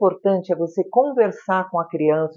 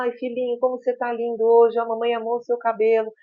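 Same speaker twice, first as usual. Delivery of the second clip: motherese; 3 semitones higher than usual. Shown as a demonstration. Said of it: "com a entonação da voz. Eu falo que é o mamanhês".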